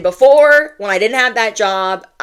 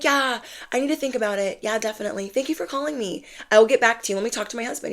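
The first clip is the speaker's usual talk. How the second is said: feigned casual; 3 semitones higher, 6 dB quieter, much faster than usual. Retold or imitated. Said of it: "trying to pretend like I'm not".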